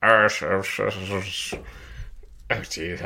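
J R impression. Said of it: "do the J R botch".

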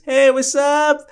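high, put-on "hey" voice; high mock greeting. Greeting a barely-seen friend, high put-on voice. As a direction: call it out in a high silly voice.

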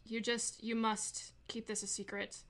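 put-on unsure, half-remembered British accent; a shaky try at a British accent; attempted British accent. Game master as Arwen asking for secrecy, faltering British accent. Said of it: "trying to remember how to do a British accent".

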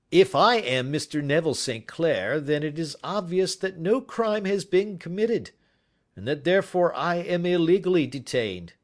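the unmasked prisoner defiantly arguing his innocence; prisoner's voice. A narrator's reading. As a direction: claim your rights with cool logic. Prisoner's voice in a read story.

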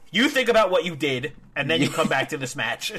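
a hint of stern dad; lightly voiced scolding dad. Heel putting the underdog in timeout, mock scolding. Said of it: "a dad just, like, punishing their kid".

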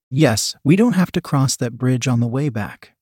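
"that" lifted and punched above the other words; emphasis on THAT. A narrator's reading. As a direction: lean on "that" in "that bridge". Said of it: "with an emphasis on the word that".

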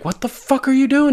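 a hint of Jaime's angry disbelief; mock outrage. Jaime reacting to his brother's confession, mock outraged. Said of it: "Jaime's like".

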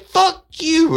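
high, loud and slow outrage; outraged old lady. Retold or imitated. Woman on the phone threatening the rude caller, loud and outraged. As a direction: spit it out, scandalized.

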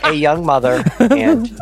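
hammed-up public radio storyteller; Ira Glass impression. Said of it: "it's a parody of This American Life".

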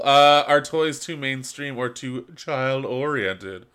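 high, slow, haughty art dealer; snobby art dealer. Acted. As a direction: read it like a snooty gallery owner. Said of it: "Read this like a snobby art dealer".

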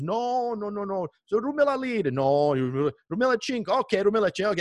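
high voiced back-and-forth bargaining; haggling. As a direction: argue the price down. Haggling over price.

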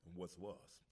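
lightly voiced stern lion father; a hint of a stern lion king; Mufasa. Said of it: "here's my impression of Mufasa".

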